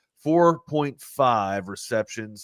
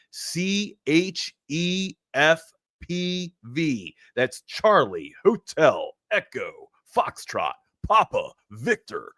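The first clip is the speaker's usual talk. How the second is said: dispatch voice; 2 semitones higher, much slower than usual. Acted. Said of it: "Sound like a C B radio talk right there".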